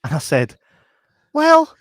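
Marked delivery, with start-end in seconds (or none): 1.3-1.7 high, loud, slow strained voice; mock panicked blurt dissolving into laughter; blurted awkward line. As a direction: squeak it out, cringing and laughing.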